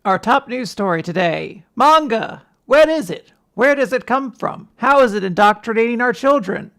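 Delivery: dramatic local news anchor; newscaster voice. Pretend. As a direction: sensational TV news teaser. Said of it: "I'm doing a newscaster voice".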